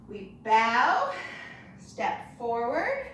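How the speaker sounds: drawn-out slow step forward. Shown as a demonstration. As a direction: stretch "step forward" out very slowly. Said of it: "very slowly".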